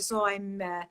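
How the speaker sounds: Russian ballerina's accent. Shown as a demonstration. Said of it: "in a Russian accent".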